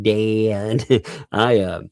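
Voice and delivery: put-on a light Southern drawl, child's plea; mild imitation of a Southern girl asking her dad; imitating daughter's Southern drawl. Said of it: "like, a heavy Southern drawl".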